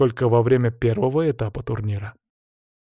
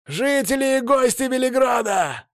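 herald shouting; 12 semitones higher than usual. A narrator's reading. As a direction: cry it out to the whole crowd. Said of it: "снова завопил голосистый глашатый".

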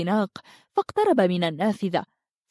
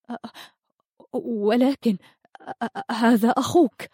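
stammering, broken-off syllables; trembling voice; 3 semitones higher than usual. A narrator's reading. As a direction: stumble over the first sounds in fear. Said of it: "قالت ميلاء بصوت مرتعش".

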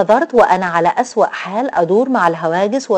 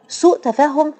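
high, questioning repetition; much higher, sceptical question; incredulous echo; 8 semitones higher than usual. A narrator's reading. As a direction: throw the words back in disbelief. Echoes his words in disbelief.

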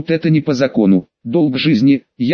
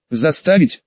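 surprised. Acted. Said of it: "Император так натурально удивился".

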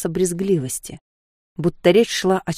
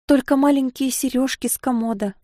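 frightened babble; 7 semitones higher than usual. Acted. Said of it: "пролепетала Софья".

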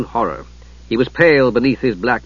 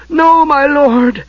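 hoarse whisper; 13 semitones higher, 5 dB louder, much slower than usual. Acted. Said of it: "reduced to a hoarse whisper".

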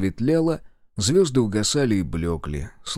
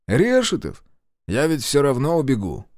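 taunting shout; 5 semitones higher, 3 dB louder than usual. Acted. Prisoner taunts guard.

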